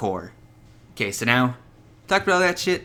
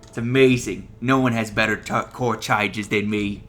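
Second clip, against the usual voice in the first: Trump impression. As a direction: lightly imitate Trump's bragging, stretching out the last words. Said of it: "That sounded a bit like fucking Trump right there".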